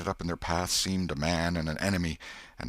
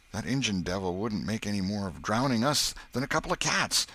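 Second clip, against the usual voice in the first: put-on higher boyish, anxious voice; scared Huck; 4 semitones higher, 3 dB louder than usual. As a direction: voice a worried country boy. Huck insists they swear.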